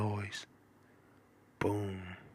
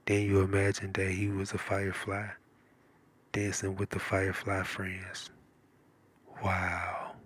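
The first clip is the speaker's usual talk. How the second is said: ordinary talk, nothing marked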